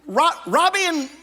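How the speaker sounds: high, frantic stammering; frantic name fumbling. Acted. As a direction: scramble for the name.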